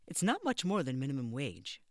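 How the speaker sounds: warning him off; stern matron. Acted. Matron on phone interview.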